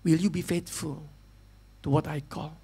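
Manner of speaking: a tender, quiet divine call; voice of the Holy Spirit. Acted. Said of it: "Roh Kudus mengatakan". (suara Roh Kudus, lembut, pelan, rendah)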